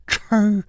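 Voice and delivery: brief sibilant snicker; short scoffing laugh. A narrator's reading. Masked stranger mocking the hero from behind, short snicker. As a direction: let out a single hiss of a laugh. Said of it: "一声笑".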